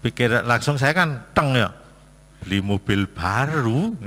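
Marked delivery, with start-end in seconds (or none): 2.4-3.9 slow, rising, doubtful echo of the request; surprised question. Retold or imitated. Father echoing his child's car request in disbelief. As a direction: repeat the words back in disbelief. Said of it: "Pikir saya kan".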